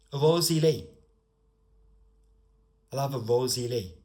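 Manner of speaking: bright-pitched Cockney demo; Cockney rhyming-slang lilt; Cockney accent. Shown as a demonstration. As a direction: say it like a London Cockney. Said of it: "very specific to Cockney accent".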